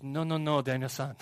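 lightly attempted Japanese accent; a hint of Mister Miyagi's Japanese accent. Mister Miyagi stopping Daniel at the fence, lightly imitated accent. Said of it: "I don't know if that's the right accent".

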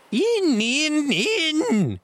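very high, loud repeated yell; frantic shout. A narrator's reading. Blind man urging his men inside, high enraged shout. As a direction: scream the command, afire with rage. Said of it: "he shouted".

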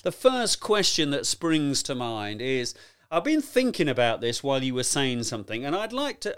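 slowly drawn-out, lightly mimicked long-winded asker; a hint of a pompous audience member, taking his time; slow rambling questioner. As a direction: drag out each phrase like a ponderous questioner. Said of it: "they talk like this as well".

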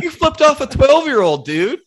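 high, loud teasing accusation; mock accusing. Ribbing his buddy for flipping off a kid, high mock accusation.

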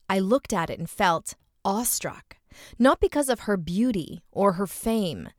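deliberate phrasing with weighted key words; expressive essay reading. A narrator's reading. Host reads a woman's essay on womanhood to her co-host, expressive reading. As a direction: read it aloud with feeling, pausing between descriptions.

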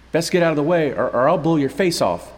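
put-on a scared boy trying to sound dangerous; shaky threat. Young man threatening strangers in the tunnel, high and loud. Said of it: "The boy's voice was distant, shaky".

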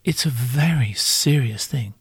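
lightly put-on solemn tone; serious voice. Shown as a demonstration. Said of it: "this is my serious voice".

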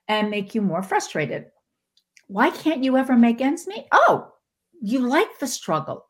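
the universe cheerfully granting the wish. Retold or imitated. The universe answering the whiner, high and sugary. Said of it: "and said".

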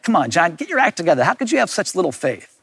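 mild imitated scolding. Jesus imagined telling John to shape up, mildly scolding. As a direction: chide him briskly, with little force. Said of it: "maybe Jesus was scolding me".

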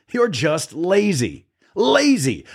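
high, drawn-out accusation, climbing on the repeat; angry shout. A narrator's reading. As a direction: shout it scornfully without much extra volume. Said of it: "But Pharaoh shouted".

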